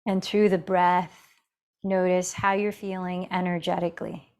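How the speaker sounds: calm, measured meditation guide with long pauses; guided meditation. Real, not acted. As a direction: gently guide them into the breath, leaving space between phrases. Leads breathing meditation.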